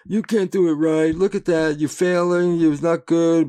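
a hint of a mocking inner critic voice; lightly voiced scolding shoulder devil; nagging inner critic. Man voicing his inner critic, mildly mocking and scolding. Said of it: "somebody standing on my shoulder giving me".

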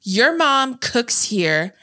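slow, drawn-out movie quote; mock confrontation, spelled out slowly; imitated accusation. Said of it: "That's why I said".

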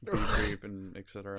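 slow theatrical villain menace. Acted. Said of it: "Why did you say it like that?".

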